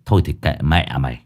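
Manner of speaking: low, dismissive grumble; resigned, annoyed old boss; irritated, giving up. Acted. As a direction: tut and write him off. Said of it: "Lão Năm chặt lưỡi".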